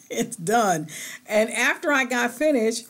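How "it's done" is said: tearful catch in the voice; real emotion breaking through; teary, touched admission; choked up. Real, not acted. Emotional after cutting off hair.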